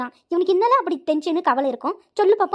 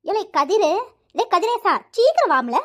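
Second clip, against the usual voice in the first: calling out; 2 semitones higher, slower than usual. Acted. Mother yelling for Kadir to come and eat, calling out. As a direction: call out for someone in another room. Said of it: "ஏம்மா அப்படி கத்திட்டு இருக்க".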